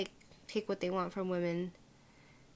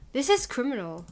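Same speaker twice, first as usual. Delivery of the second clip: loud, indignant "This is criminal"; indignant declaration; outraged; 4 semitones higher, 5 dB louder than usual. Real, not acted. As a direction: condemn it with heat. Outraged at the video.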